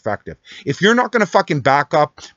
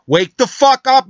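louder, higher and slower, roaring the words out; furious shout; 10 semitones higher, 6 dB louder, slower than usual. Real, not acted. Ranting caller screaming at President Trump, furious shout. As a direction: yell it at him full force, stretching each word.

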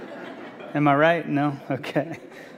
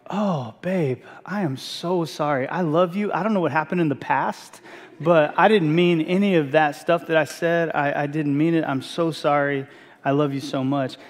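softer, slower, pleading sorry to his wife; soft apology; 2 semitones lower, 3 dB quieter than usual. Retold or imitated. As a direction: make up with her gently, almost murmuring. Retold apology after eating.

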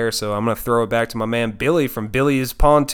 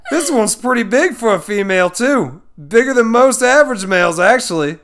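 high, hammed-up Aussie nature host; Australian accent; 10 semitones higher, 5 dB louder than usual. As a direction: narrate like a mock Australian zoologist. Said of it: "Laughs in Australian".

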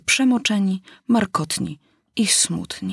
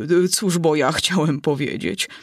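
offended. Acted. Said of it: "ciągnął dalej Drąt obrażony".

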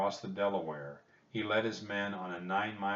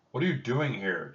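louder, higher, angry questioning; furious demand; 4 semitones higher, 6 dB louder than usual. A narrator's reading. George Washington confronts the children, furious. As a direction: demand an answer, with some anger. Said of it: "The commander-in-chief sounded furious".

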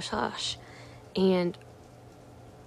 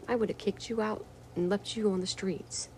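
mock troll voice; 3 semitones higher, 5 dB quieter than usual. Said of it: "And he says".

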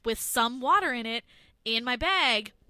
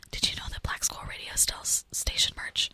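whispered sponsor read; ASMR ad read. Pretend. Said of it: "Should I do the live read in A S M R?".

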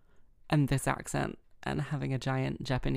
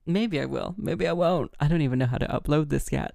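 playful rising loudness; 6 dB louder than usual. Real, not acted. Playful sign-off getting louder.

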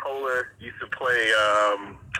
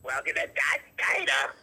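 mock diner waitress; 3 dB louder than usual. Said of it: "Now I'm gonna start doing Dot's Diner".

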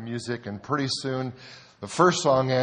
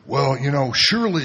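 mock old drunk; 3 semitones higher, 7 dB louder than usual. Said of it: "He goes".

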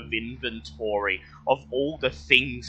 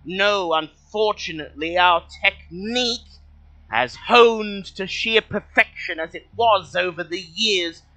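kobold voice; 7 semitones higher, 4 dB louder than usual. Acted. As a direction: speak as a polite high-pitched kobold. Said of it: "in surprisingly good common, he says".

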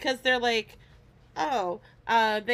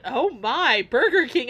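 stunned friend; 2 semitones higher, 6 dB louder than usual. Retold or imitated. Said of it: "she went".

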